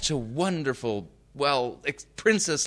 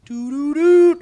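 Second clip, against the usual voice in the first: high sung doo-doo-doo beeps; imitated phone chime before a recorded message; phone error tones; 14 semitones higher, 7 dB louder, slower than usual. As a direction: mimic the disconnected-line chime. Imitating a disconnected phone line.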